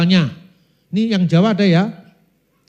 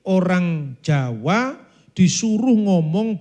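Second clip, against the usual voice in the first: mock foreign-sounding Javanese; slower than usual. Shown as a demonstration. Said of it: "Itu mirip gini".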